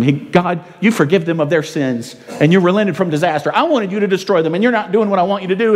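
mild whine. Acted. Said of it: "He tells him".

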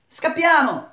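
high-pitched urgent yell; shouted warning. A narrator's reading. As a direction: cry out to flee.

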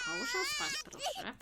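high-pitched sweet plea; high pleading voice. Pretend. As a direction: coax it in a high voice. Coaxing a sim to bed.

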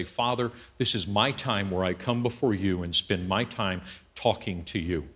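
low, soft, sincere prayer. Shown as a demonstration. Demonstrates a sincere daily prayer.

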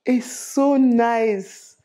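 very slow drawn-out gush; lingering delighted sigh of praise; admiring. Real, not acted. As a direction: stretch it, admiring yourself. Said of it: "can people see that?".

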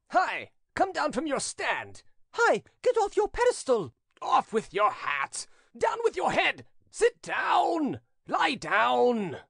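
high-pitched heckling from a crowd; shouted invective. A narrator's reading. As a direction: yell jeers in a high, strained voice. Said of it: "expressing itself in invectives".

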